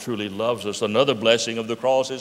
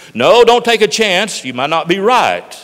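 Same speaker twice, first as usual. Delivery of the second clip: anxious warning; 6 semitones higher, 12 dB louder than usual. Acted.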